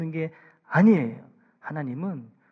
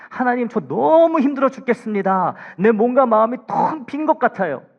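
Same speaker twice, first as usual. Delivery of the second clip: high, louder cry of a worn-out believer; honest pleading prayer; 7 semitones higher, 10 dB louder than usual. Acted. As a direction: pour it out to God like you're at the end. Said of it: "이런 기도".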